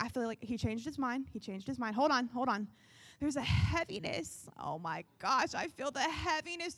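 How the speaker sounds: soft, low, solemn murmur; hushed prophetic voice. Acted. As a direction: hush it like sensing something heavy. Mock prophetic heaviness, hushed.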